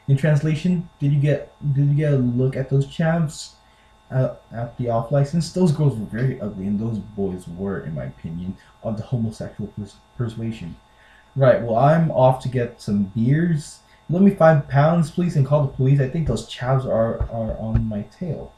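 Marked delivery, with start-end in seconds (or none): 1.0-10.8 half-hearted mock-British reading; British accent attempt. Shown as a demonstration. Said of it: "a typically British sentence". 11.3-18.5 amateur mock-British reading; badly faked British English; British accent attempt. Shown as a demonstration. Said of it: "a typically British sentence".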